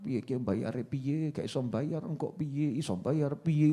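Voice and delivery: soft, slow anxious muttering to oneself; fretting worrier. Retold or imitated. Preacher mocking a debtor who only frets, soft slow worried muttering. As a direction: mutter the worries of someone who can't pay, softly and slowly. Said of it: "Orang mikir nyawang".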